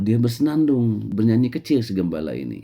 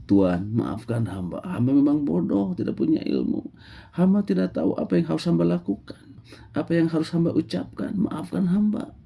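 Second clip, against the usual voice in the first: a hint of tears as he begs; tearful plea; 10 semitones higher than usual. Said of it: "air matanya pun jatuh menetes". (memohon ampun sambil menangis)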